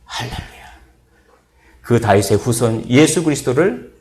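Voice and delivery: rising, ringing sermon cadence; preaching. Acted. Pastor preaching to his church, ringing sermon voice. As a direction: preach it, building toward the call.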